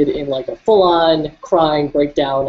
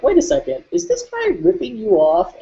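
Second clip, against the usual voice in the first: higher-pitched, lightly voiced worried parent; 8 semitones higher than usual. Parents questioning their son's underpaid job, worried and higher. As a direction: sound alarmed, as a concerned mom would. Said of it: "my parents actually were like".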